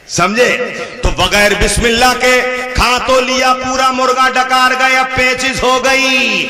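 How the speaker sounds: usual speaking voice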